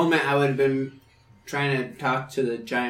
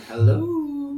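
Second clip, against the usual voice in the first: hello pitched way up; high called hello; 12 semitones higher than usual. Acted. Dwarf knocking on the cell door, a high called hello. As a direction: call it through the door, high up.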